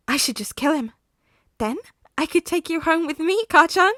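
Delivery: high, gleeful murderous croon; creepy villain voice. Acted. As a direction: savor the threat. Villain menacing plan.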